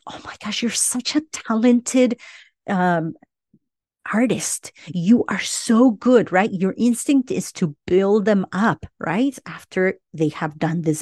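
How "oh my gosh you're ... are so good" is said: breathy gasp then high gushing praise. Retold or imitated. Parent gushing over a kid's drawing, high and excited. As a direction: gush over the child's drawing. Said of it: "Your instinct is to be like".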